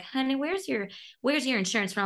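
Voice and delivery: quoting a Southern nurse in a gentle mock Southern accent; imitating a Southern nurse. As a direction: play a kindly Southern nurse, lightly. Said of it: "I once spent a summer down south".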